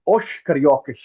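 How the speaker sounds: os cariocas with each final s said as sh, oshcariocash; Rio accent pronunciation. Shown as a demonstration. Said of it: "In the Rio accent will be pronounced as".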